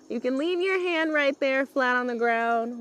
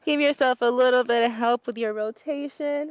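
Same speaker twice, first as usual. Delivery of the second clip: muffled, face down to the floor; talking into the mat; 4 dB louder than usual. Real, not acted. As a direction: speak with your face in the mat. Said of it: "I'm talking into the mat".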